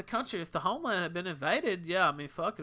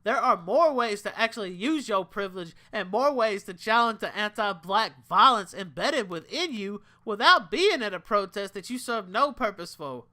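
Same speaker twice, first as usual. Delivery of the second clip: put-on black voice; 6 semitones higher, 11 dB louder than usual. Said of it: "I'm giving my black voice here".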